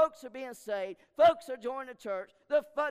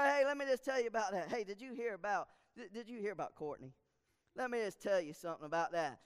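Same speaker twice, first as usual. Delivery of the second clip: softer, lower gossip voice; gossiping hush; 5 semitones lower, 5 dB quieter, faster than usual. Retold or imitated. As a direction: lean in and spill the gossip quietly. Church gossip voiced in sermon.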